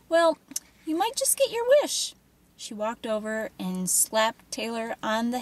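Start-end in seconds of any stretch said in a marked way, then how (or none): 0.1-2.1 high, sing-song cruel mockery; mocking taunt. A narrator's reading. Tormentor mocking the girl's wish, sing-song. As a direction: tease her with a nasty lilt.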